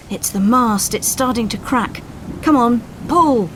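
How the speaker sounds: loud alarmed call to pull; urgent shout. Acted. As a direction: spur the crew on as the mast splits. Coxswain shouting as mast cracks.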